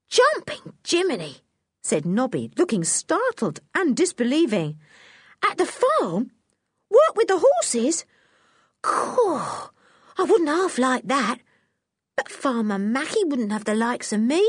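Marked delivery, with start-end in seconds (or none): 0.1-1.4 put-on high, excited cockney circus boy; a lad who can't believe his luck; startled Nobby. 5.4-14.4 put-on high, excited cockney circus boy; a lad who can't believe his luck; startled Nobby. Nobby disbelieving.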